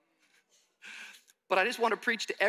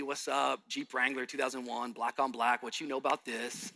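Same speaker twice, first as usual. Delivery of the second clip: city-dude swagger; 4 semitones lower, 4 dB quieter than usual. Retold or imitated. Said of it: "I'm a dude from the city".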